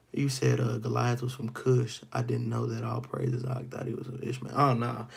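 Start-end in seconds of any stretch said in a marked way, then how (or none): none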